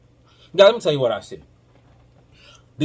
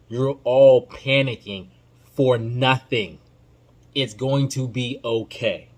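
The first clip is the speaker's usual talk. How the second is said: slow, soothing calm-down for the fans; slow reassurance; slower than usual. Real, not acted. Podcaster calming panicking fans, slow and soothing. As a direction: ease them down gently, word by word. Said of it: "reassuring worried fans".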